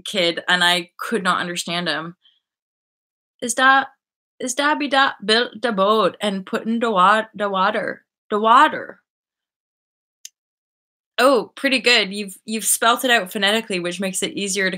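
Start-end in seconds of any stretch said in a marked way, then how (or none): 3.4-9.0 lightly imitated Newfie kid; Newfoundland accent, quoting a kid. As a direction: put on a thick-tongued Newfie dialect, lightly. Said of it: "this was a proper Newfie".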